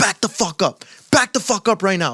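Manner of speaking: play-acted urgent yell at the top of lungs. Retelling what was yelled at fans near the referees: imitating a top-of-lungs yell. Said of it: "I yelled, like, top of my lungs yelled".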